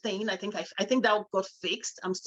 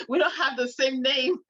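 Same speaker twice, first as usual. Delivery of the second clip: laughing through the quote; 5 semitones higher, 3 dB louder than usual. Retold or imitated. Retelling son's refusal, laughing.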